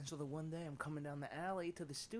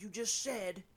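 mock yell, higher and louder; a retold angry confrontation, raised voice; 5 semitones higher, 6 dB louder than usual. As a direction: bark the accusation back at the kid. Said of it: "started screaming at that motherfucker".

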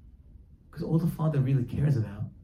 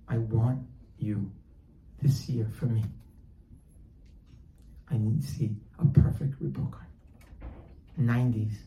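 solemn fatherly request; 4 semitones lower, 3 dB quieter than usual. Acted. Father sits his son down for a last chance, solemn.

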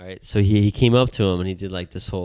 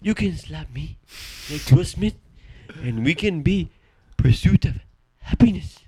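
Squid Game grandpa voice; 6 semitones higher, 3 dB louder than usual. Retold or imitated. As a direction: play the old man from Squid Game. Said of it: "Asian grandpa voice".

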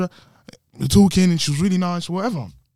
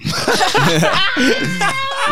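loud, high-pitched burst of laughter; real shrieking laughter; big laugh; 5 dB louder than usual. Real, not acted. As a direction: crack up at the boast. Laughing at own boast.

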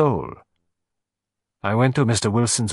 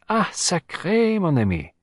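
slow, high outburst on sacré; an exclamation of sudden realisation; cried out; 8 semitones higher, slower than usual. Acted. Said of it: "cried Poirot".

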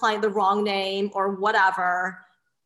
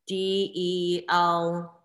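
spelled out slowly; 3 semitones lower, much slower than usual. Shown as a demonstration. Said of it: "it was spelled".

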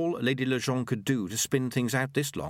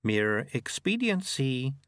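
slow, measured auditor voice; drawn-out, dispassionate character voice; cold official; 4 semitones higher, much slower than usual. Acted. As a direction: pronounce it slowly and deliberately. The speaker's cool character voice.

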